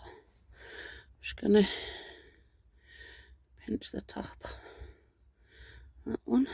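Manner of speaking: breathy with a chest infection; audible heavy breathing. Real, not acted. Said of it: "Excuse the breathing".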